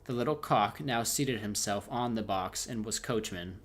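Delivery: steady storybook reading voice; story narration. A narrator's reading. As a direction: read the tale aloud to the viewers. Streamer reads second tale aloud.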